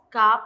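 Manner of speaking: "kap" closed on the lips, no s; pronunciación modelo. Shown as a demonstration. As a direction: demonstrate "kap" with only the final p/b sound. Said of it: "se pronuncia la biot y la shiot se omite". (pronunciar "kap" sin la s final)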